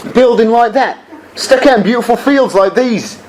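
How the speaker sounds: a dry laugh running through the words; amused contempt for the building; laughing scoff. Acted. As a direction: chuckle with scorn at the eyesore.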